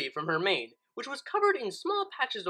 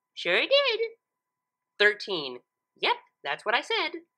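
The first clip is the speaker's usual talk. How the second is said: high, chirpy pony voice; totally sure of herself; Pinkie voice; 4 semitones higher, slower than usual. Acted. Pinkie cheerfully confirms her sum to Twilight.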